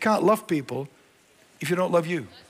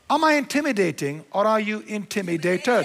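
a raised, challenging question to the crowd; forceful challenge. Real, not acted. Preacher to congregation, challenging them with a raised voice. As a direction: throw the question back at them, hard.

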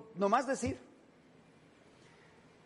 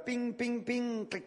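violin tuning noises; 3 semitones higher than usual. Retold or imitated. Imitates violin being tuned.

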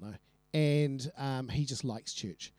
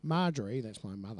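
Nigel; 4 semitones lower than usual. Acted. Introducing his mother, meek oddball character voice. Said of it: "Oh, he had a voice".

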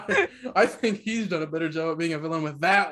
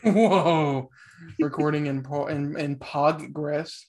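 slow theatrical villain menace; 3 semitones lower than usual. Acted. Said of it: "doing the voices".

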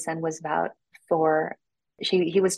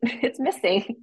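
laughing through the words; laughing disbelief; 6 semitones higher, slower than usual. Retold or imitated. Telling the host her period was missing, laughing. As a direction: giggle it out in disbelief.

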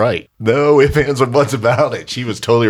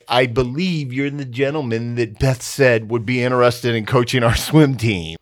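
imitating wife; 4 semitones higher than usual. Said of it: "you said".

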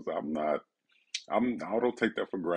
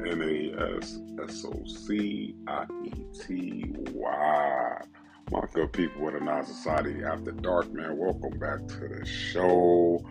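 show intro; slower than usual. Acted. Podcast intro over music.

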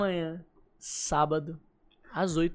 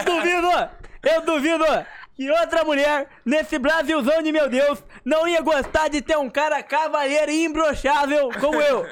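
fired-up rant; 5 semitones higher, 5 dB louder than usual. Real, not acted. Boastful playful rant about himself.

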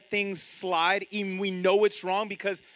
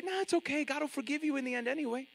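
higher, soft and dismissive, brushing off sin; mock reassuring persuader; 6 semitones higher, 7 dB quieter, faster than usual. Woman telling the church God forgives anyway, soft coaxing voice. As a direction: wave the worry away with a sweet higher voice. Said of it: "this lady is leading this whole church to say".

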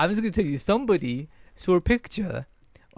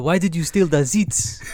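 slow, clumsy French accent; hesitant mock French accent; 4 dB louder, slower than usual. Shown as a demonstration. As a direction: attempt a French impression, slowly. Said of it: "Massam did his French impression".

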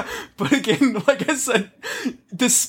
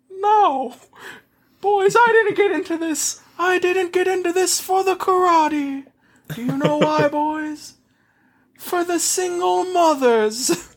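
silky polite villain; 9 semitones higher than usual. Acted. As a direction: purr it like a smug Bond villain. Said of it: "that's just how he talks now too".

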